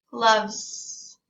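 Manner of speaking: "Gloves" with the final s held long. Shown as a demonstration. Teacher modelling "Gloves" with a long final s. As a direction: stretch the s at the end of "Gloves". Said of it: "make the S sound a little extra long".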